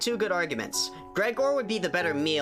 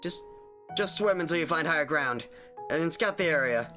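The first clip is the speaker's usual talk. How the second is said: bad acting; 3 semitones higher than usual. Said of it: "I apologize for my terrible voice acting".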